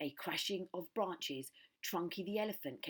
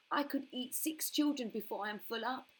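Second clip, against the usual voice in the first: greedy crocodile; 8 semitones higher, 4 dB louder than usual. A narrator's reading. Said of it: "he said to himself".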